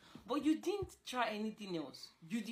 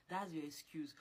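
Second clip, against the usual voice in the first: whispered jab; 3 semitones lower, 5 dB quieter than usual. Real, not acted. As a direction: whisper it, a pointed aside. Sneering aside to boyfriend.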